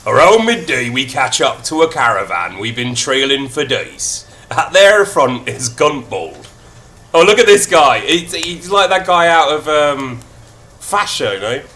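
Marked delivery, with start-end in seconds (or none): 0.1-6.5 narrating in a light Irish lilt; storyteller's Irish brogue; Irish accent. Acted. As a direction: keep the mild Irish accent going. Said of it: "Full Irish".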